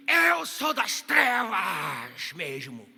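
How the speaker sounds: very slow, loud, roaring man's voice; possessed man's voice. Retold or imitated. Sister gripped by darkness, answering the pastor in a slow demonic roar. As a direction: boom it out like a demon speaking through her. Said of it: "ela começou a falar igual um homem".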